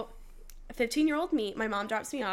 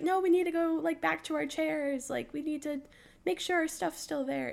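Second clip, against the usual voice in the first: higher-pitched, mildly urgent retold plea; urgent stalling; 5 semitones higher than usual. Worker stalling kids at the lazy river, mildly urgent. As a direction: lightly act out putting the kids off.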